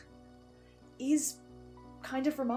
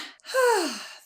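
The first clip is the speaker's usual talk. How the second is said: exasperated sigh; 7 semitones higher than usual. Acted. Exasperated after kidnapping news.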